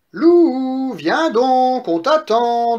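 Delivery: high, loud singsong piglet taunt; taunting call. Acted. Eldest pig invites wolf into pot, taunting. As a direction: call out to lure him down.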